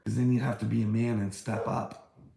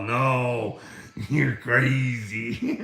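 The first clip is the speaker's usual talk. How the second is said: louder, dragged-out put-on voice; mock dismissal; 4 dB louder, much slower than usual. Vlogger mimicking people dismissing him, mock-scornful. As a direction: stretch "crazy" out with mock scorn.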